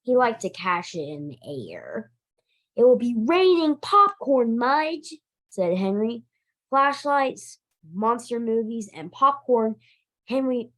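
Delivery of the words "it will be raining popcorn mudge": excited. Acted. Henry promises dog popcorn.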